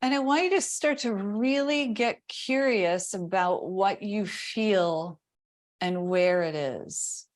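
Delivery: calm body-scan guidance with long silences; guided meditation. Real, not acted. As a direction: pose gentle questions, leaving room after each. Guides attention to body sensation.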